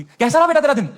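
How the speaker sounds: innocent mother asking. Retold or imitated. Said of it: "बड़ी innocently पूछती थी".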